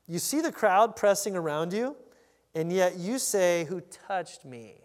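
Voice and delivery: slow, drawn-out exasperation; eye-rolling disbelief. Acted. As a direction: question him with an incredulous eye roll. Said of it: "with a lot of eye rolling".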